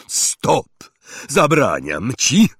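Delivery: loud, panicked shout; terrified roar. Acted. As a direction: roar in fear. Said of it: "ryknął przerażony wuj Vernon".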